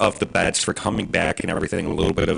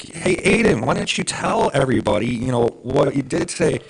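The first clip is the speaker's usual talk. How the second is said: excited prompting; 5 semitones higher than usual. Retold or imitated. Dad prompting son to announce.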